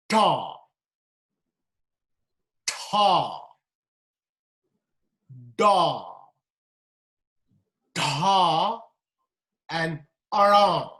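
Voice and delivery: Ta, Da, ara said retroflex, tongue curled back; each retroflex syllable said apart; curled tongue heavy consonants. Shown as a demonstration. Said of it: "these are the ones".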